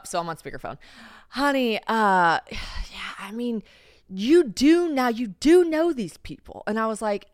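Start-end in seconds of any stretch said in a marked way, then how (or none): 1.3-6.6 slow, patient dad sigh; lightly voiced hesitant father. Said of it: "He pulls one of these".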